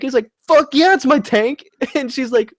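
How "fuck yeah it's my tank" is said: cocky dude. Retold or imitated. Acting the man in the video.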